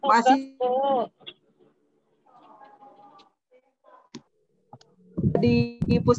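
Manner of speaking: choppy broken signal; cutting out mid-word; radio breaking up. Real, not acted. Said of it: "Suaranya putus-putus".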